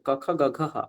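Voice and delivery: ক, খ, গ, ঘ, হ all from the throat; throat consonants. Shown as a demonstration. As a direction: sound out ক, খ, গ, ঘ, হ from one place. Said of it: "একই জায়গা থেকে দেখুন উচ্চারণ হচ্ছে". (কণ্ঠ্য উচ্চারণ)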